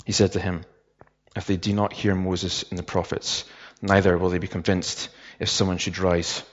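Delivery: measured Bible reading with softened phrase endings; unhurried, restrained reading aloud from scripture. Real, not acted. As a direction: read the passage solemnly and evenly, pausing between phrases. Reads the Bible passage aloud.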